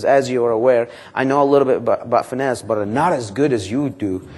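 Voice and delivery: humble manager asking the bank for help; humble phone pitch. Acted. Manager role-plays calling the bank.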